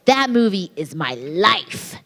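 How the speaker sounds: slow, weighty declaration, imitating a superfan; overselling. DVD seller swearing devotion to the film, overselling. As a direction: mimic devotion so overdone it sounds sarcastic. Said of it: "Now I know you're being sarcastic".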